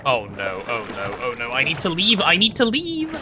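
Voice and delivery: panicked oh no rising to a yelp; frantic, scrambling to escape; terrified gibbering. Real, not acted. Panicking in game.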